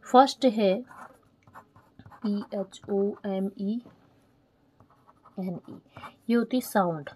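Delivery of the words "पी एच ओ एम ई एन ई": slow letter-by-letter dictation; spelling out. Shown as a demonstration. Teacher dictating a term to students, spelled out slowly.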